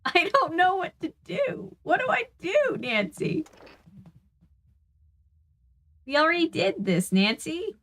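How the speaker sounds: fake British accent. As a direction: put on a tired, silly British accent. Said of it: "I'm doing the fake British accent".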